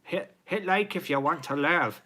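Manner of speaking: high-pitched mock Scottish accent; bad Scottish accent. Streamer asking for likes at wife's request, bad Scottish accent. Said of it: "Do it in a Scottish accent".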